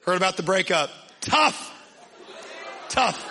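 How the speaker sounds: mock sympathy with pauses between jabs; teasing put-on commiseration; sarcastic. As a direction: rib a buddy with fake concern. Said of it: "ripping him a new one in a sarcastic".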